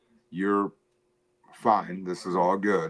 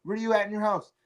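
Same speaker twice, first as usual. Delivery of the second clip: mock cohost voice; 10 semitones higher, 6 dB quieter, faster than usual. Mocking cohost's question.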